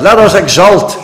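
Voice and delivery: slow, weighty repeat; repeating the text slowly; slow emphatic. Shown as a demonstration. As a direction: lean on each word. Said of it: "slow emphatic repeat".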